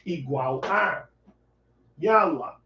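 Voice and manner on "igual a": slow gloss. Shown as a demonstration.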